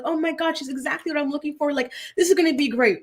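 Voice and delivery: lightly mimicked gushing; mock excitement. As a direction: imitate an excited newlywed, light and quick. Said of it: "they're so excited".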